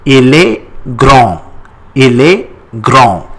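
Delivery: grand with a nasal ending and no D; silent D. Shown as a demonstration. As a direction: model "grand" in French, D left silent. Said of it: "We don't pronounce D at the end".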